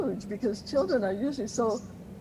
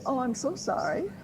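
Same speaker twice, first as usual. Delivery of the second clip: empathetic parent; 3 semitones higher than usual. Retold or imitated. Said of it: "the parent would just say".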